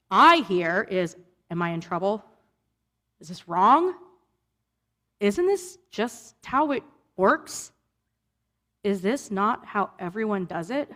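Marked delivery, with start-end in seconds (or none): 1.5-10.9 a hint of a nervous child asking; anxious questioning. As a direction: sound unsure and afraid of being in trouble. Voicing her anxious younger self.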